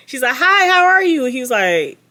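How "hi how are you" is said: much higher, louder girly mock voice; mocking Brittany. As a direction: ham up a sugary fake-sweet girl. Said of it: "I cannot stop mocking this girl".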